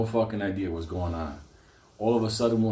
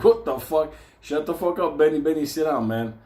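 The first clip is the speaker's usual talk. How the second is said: exasperated telling-off; 6 semitones higher, 4 dB louder than usual. Retold or imitated. Acts out telling Benny off.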